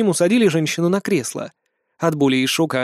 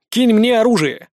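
raised, higher call to catch the gun; shouted; 6 semitones higher, 4 dB louder than usual. A narrator's reading. Hero shouts to his father to throw the gun. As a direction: shout it across the room mid-fight. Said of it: "крикнул я".

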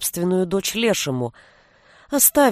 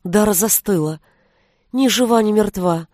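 ordinary delivery

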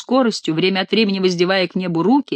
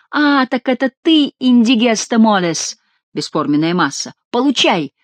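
gloating whipping cries; 4 semitones higher than usual. Acted. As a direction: relish each blow you land.

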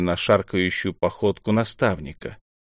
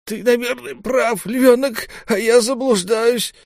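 put-on high, slowed old temple mentor; mentor, pitched high, giving way to Хатуру. A narrator's reading. Наму speaks with Хатуру.

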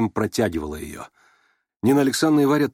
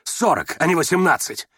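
insistent exclamation, pitched up; excited cry; 5 semitones higher than usual. A narrator's reading. Rogozhin haggling before the whole company, excited cry. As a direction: cry it out as an indignant correction. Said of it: "закричал Рогожин".

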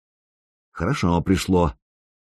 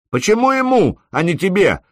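much higher shouted question; shouted challenge; 10 semitones higher than usual. A narrator's reading. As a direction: call it out from the shield line. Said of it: "крикнул всё тот же Пегоусый".

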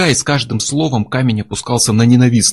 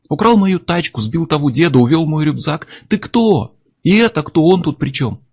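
angry accusation; 6 semitones higher than usual. A narrator's reading. Miller accuses Chuck of the theft, raised angry voice. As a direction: hurl each charge at him.

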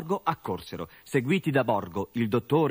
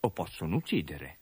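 a hint of a grave old healer, lower; lightly voiced old doctor; 3 semitones lower than usual. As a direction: sober doctor explaining. Village doctor explains gravely.

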